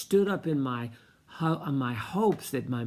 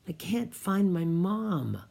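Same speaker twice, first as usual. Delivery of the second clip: put-on scared little boy; 6 semitones higher than usual. Lost boy quoted.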